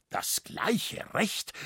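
slow, hissed disbelief on Recht; outraged father hissing back his daughter's words; beside himself. A narrator's reading. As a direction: spit the words out, barely voiced, beside himself. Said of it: "rief Liskirchner außer sich".

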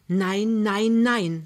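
loud, fervent nein, nein, nein; passionate refusal. A narrator's reading. Wife refusing her husband's plan, loud and passionate. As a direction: refuse him with everything you have. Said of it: "sagt Lämmchen leidenschaftlich".

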